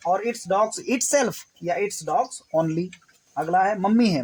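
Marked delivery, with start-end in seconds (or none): 0.2-1.3 very slow, itself falling at the end; slow demo sentence. Shown as a demonstration. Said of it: "इसके लिए हम it लगाते हैं". 1.7-2.9 very slow and a bit lower, weight on dogs; slow demo sentence. Shown as a demonstration. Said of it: "इसके लिए हम it लगाते हैं".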